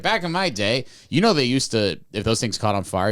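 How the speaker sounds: put-on high, loud old man reminiscing; old-timer voice. Old projectionist telling the narrator about fires, high old-man voice. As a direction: play the crusty old-timer telling war stories. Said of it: "he was like".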